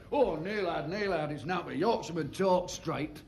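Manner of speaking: slow, lightly mocking Yorkshire drawl; a hint of put-on Yorkshire; mock Yorkshire accent. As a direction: take off a straight-talking Yorkshireman, slowly. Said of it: "Big, hard, straight-talking Yorkshireman".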